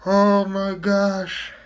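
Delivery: high, slow laughing gasp. Real, not acted. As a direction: laugh it out in disbelief. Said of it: "I'm laughing".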